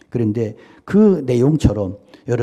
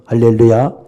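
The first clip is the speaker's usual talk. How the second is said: loud hallelujah call; 4 semitones lower, 6 dB louder than usual. Real, not acted. Preacher calls out to congregation.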